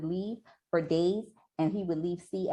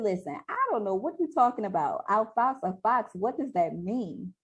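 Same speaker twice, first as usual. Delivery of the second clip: puzzled pushback; 4 semitones higher than usual. Acted. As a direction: voice her baffled reply, drawing out the question. Acting out her puzzled reply.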